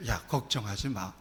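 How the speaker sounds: quiet comforting word; soft reassurance. Acted. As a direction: hush him like a loving father. God's voice comforting the pastor.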